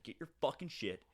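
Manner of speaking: controlled, matter-of-fact retold order; even-voiced eviction; very calm sociopath. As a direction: keep the threat eerily calm. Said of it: "very calmly, like, sociopath".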